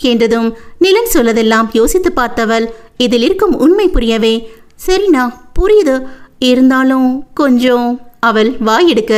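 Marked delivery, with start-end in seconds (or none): 4.9-7.9 concede, then trail into a doubt; hesitant agreement. Acted.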